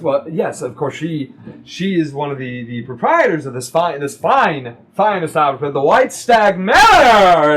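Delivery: put-on mildly drunk, restarting phrases, building to a loud finish. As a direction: stumble tipsily into a proud announcement. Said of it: "Bonal is very drunk".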